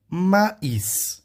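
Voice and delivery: "maíz" with separate i and hissed final s; sounded final s. Shown as a demonstration. Teacher showing the word to students, final s pronounced. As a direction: say "maíz" as ma-iss. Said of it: "vou pronunciar o S".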